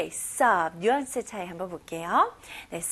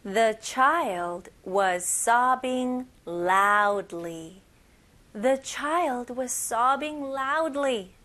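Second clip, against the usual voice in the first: very slow, deliberate model sentence; big-voice repeat-after-me model; much slower than usual. Shown as a demonstration. Teacher leading learners to repeat aloud, slow and deliberate. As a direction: spell it out slowly and firmly for learners. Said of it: "큰 목소리로 같이 한번 따라해볼게요".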